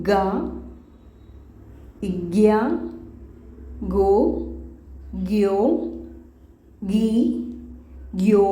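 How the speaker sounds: each Korean syllable said slowly and apart, with long pauses between; Korean syllable drill. Shown as a demonstration. Teacher drilling Korean syllables for students, slow and clear. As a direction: read the ഗ്യ syllables one by one, clearly. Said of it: "എങ്ങനെ pronounce ചെയ്യുന്നത്".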